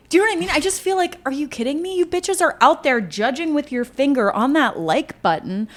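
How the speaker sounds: high, building indignant rant; escalating comedy rant. Acted.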